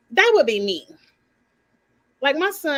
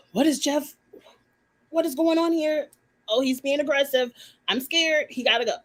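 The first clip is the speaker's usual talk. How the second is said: imitating alarmed people, higher and in a put-on voice; mock the nervous housemates, pitched up and startled; mock scared onlookers; 4 semitones higher than usual. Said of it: "all the white people are scared".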